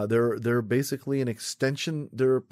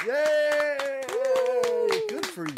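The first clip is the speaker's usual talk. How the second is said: cheer; much slower than usual. Real, not acted. Cheers a laner.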